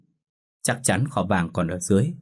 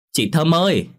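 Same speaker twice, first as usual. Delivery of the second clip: calling out; 9 semitones higher, 4 dB louder than usual. Acted. Lan calls neighbour from outside.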